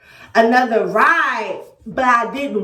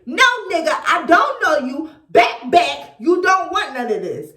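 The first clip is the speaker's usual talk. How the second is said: thug side; 4 semitones higher than usual. Retold or imitated. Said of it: "I had to bring out my thug thizzle".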